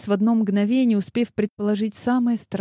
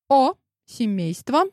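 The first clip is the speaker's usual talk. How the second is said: brightly, a touch higher; cheerful; 6 semitones higher than usual. A narrator's reading. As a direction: breeze in with a cheery hello. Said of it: "сказала она бодро". (бодро, чуть выше обычного)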